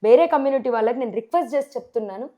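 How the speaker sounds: ordinary talk, nothing marked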